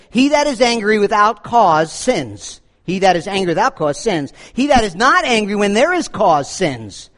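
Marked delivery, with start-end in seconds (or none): 0.1-2.6 slow, deliberate reading of the quote; slow quotation. Shown as a demonstration. Pastor quoting John Chrysostom to the congregation, slow and deliberate. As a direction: read the saint's words slowly, weighing each. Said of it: "John Chrysostom said this".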